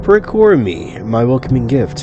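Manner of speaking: lightly voiced formal otherworldly woman; imperious eldritch deity. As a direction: issue a measured demand, drawing out key phrases. Deity demands her gift.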